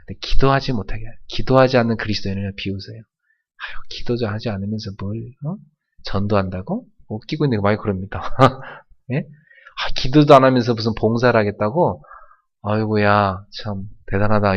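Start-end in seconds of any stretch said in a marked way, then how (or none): 3.0-14.5 mocking devil. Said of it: "이러면서 마귀가 비웃습니다".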